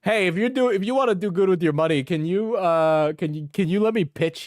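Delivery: mock eager salesman; mocking sales pitch. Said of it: "mock of S1's pitch".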